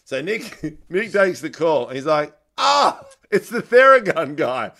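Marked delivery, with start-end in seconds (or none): 2.6-4.7 manager's voice. Retold or imitated.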